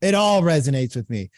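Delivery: mock excited agreement; eager homeowner. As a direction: pour it all out. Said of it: "let's say she goes".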